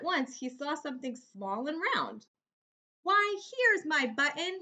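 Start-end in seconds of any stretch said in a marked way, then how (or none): 3.0-4.6 higher and louder, delighted discovery; the bear spots his lost button with joy; excited cry. Acted. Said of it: "he cried".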